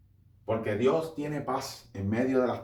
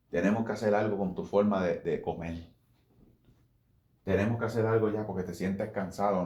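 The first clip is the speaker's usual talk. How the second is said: lower, firm but caring counsel; caring Spirit voice; 4 semitones lower than usual. Acted. Holy Spirit warning the overweight man about his health, low firm caring voice. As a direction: lay out hard truths like a gentle doctor.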